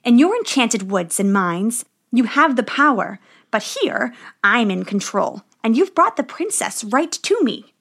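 gloating witch. Acted. Witch taunts the dwarves.

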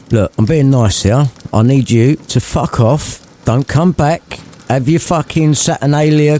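lightly voiced sweary old miser; grumpy Scrooge. Scrooge telling his nephew to clear off, lightly voiced. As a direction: brush him off with contempt.

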